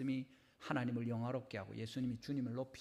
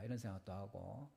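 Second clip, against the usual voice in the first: usual speaking voice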